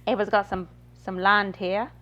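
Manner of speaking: attempted New Zealand accent; casual put-on New Zealand accent. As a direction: imitate a New Zealander, lightly. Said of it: "I know New Zealand accent pretty well".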